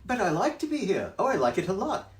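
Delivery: high, bouncy cheeky cat; cat's voice. Acted. Cat in the hat teasing the fish, high and loud. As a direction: brush off the fish, playful.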